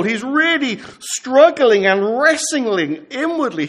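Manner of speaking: ordinary talk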